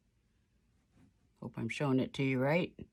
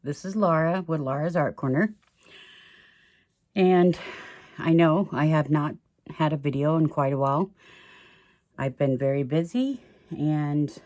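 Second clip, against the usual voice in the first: out of breath from the stairs; winded, catching breath between phrases; gasping for air; 4 dB louder than usual. Real, not acted. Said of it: "Sorry, I'm out of breath because I've been going up and down the stairs".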